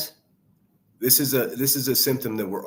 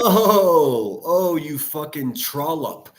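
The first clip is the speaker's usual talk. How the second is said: scornful outburst; 3 semitones higher, 5 dB louder, much slower than usual. Real, not acted. Outburst at the clip.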